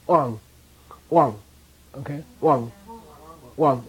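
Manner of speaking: "Wang" hit strong, a nasal ng at the end; strong high wang. Shown as a demonstration. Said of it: "it gets strong and high".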